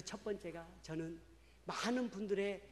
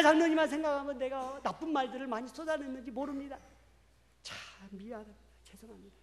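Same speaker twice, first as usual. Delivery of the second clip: sincere apology; 6 semitones higher, 12 dB louder than usual. Retold or imitated. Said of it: "제가 이렇게 이야기했습니다".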